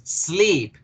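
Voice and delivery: "sleep" as one single syllable. Shown as a demonstration. Teacher showing why the verb is monosyllabic, "sleep" said in one go. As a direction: say "sleep" in one unbroken beat. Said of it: "yo le digo de una sola vez".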